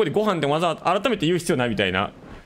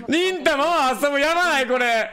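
cute dog voice; 11 semitones higher than usual. Acted. Streamer voicing Rinta's buttons to the chat, high cute coo.

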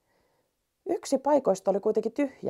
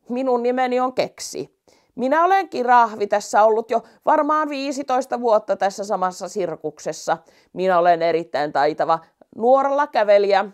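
louder, boastful giraffe voice; proud giraffe; 3 semitones higher, 5 dB louder than usual. Acted. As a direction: brag a little about the tightrope. Giraffe introduces himself. (kirahvin ylpeä esittely)

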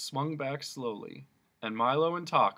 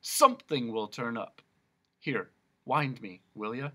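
growling dog; 4 dB louder than usual. Acted. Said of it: "growled Talk".

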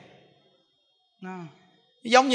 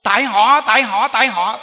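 blaming others; 6 dB louder than usual. Retold or imitated. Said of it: "nói cái câu là".

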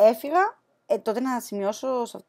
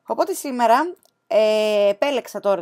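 whisper; 7 dB louder than usual. Acted. Whispered opening to viewers.

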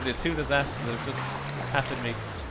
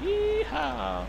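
yeehaw; 13 semitones higher than usual. Real, not acted. Cheering in the game.

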